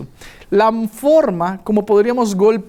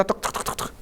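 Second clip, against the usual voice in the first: knock sounds; 10 dB quieter than usual. Retold or imitated. Imitating knocking on door.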